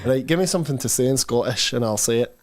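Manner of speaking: lightly put-on Scottish accent; casual talk in a Scottish accent. Shown as a demonstration. Streamer asking chat for something to say, Scottish accent. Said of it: "do a Scottish accent".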